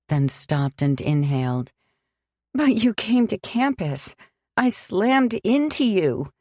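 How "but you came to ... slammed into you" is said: pointed, accusing, a little higher; sharp. A narrator's reading. Sam cutting Alex off, sharp and accusing. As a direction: bite the words at him. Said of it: "Her voice sounded sharp in her own ears".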